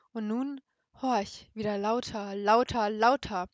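measured, dramatic reading voice; story narration. A narrator's reading. Reading Poe's tale aloud to a friend, dramatic narration.

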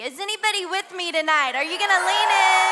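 rally the room; shouting for a response; preacher's shout. Real, not acted. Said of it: "And so as I shout".

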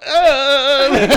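high fast laughing words. Real, not acted. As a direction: laugh through it.

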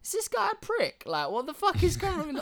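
as if you can't believe the cheek; indignant disbelief. Retold or imitated. Recalling the man laughing at his fall, in high indignant disbelief. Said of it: "And I was like".

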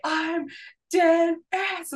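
lightly voiced high catchphrase; imitating catchphrase. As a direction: toss off the catchphrase in a mock voice. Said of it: "would cause Nick to say".

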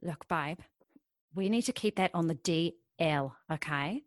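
a secretive murmur to a partner; hushed secrecy. Acted. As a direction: keep it down so nobody hears. Urging the partner to keep it secret.

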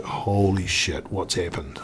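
slow, hushed shock; slow and quiet, stunned by all the blood. Retold or imitated. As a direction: say it slowly in hushed disbelief. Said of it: "I'm just like".

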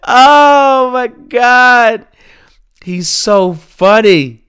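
loud, high cry straight out of laughter; real hilarity. Real, not acted. Host overcome by how funny Gucci is, hilarity. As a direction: wail it, helpless with amusement. Cracking up over Gucci's video.

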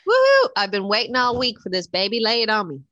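high loud whoop then eager; excited cheer. Real, not acted. Welcoming her co-host's segment, excited whooping. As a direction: whoop like a game show fan.

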